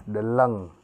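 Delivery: deleng with a short schwa first syllable, dəleng; clear Pakpak pronunciation. Shown as a demonstration. Teacher models deleng for the class, carefully pronounced. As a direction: say deleng as dəlaŋ, stressed clearly. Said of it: "ini pengucapannya jelas ya".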